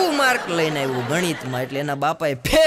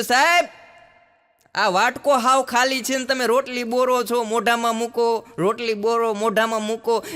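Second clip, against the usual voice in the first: curious schoolboy; 5 semitones higher than usual. Retold or imitated. Schoolboy puzzles at teacher's empty bowl, high curious voice. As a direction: ask like a wide-eyed little pupil. Child questioning teacher at lunch.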